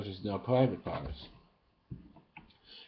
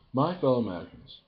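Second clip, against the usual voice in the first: stately "My fellow Americans", higher and louder; Obama impression; 4 semitones higher, 4 dB louder than usual. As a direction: open like a president addressing the nation. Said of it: "my impression of Obama".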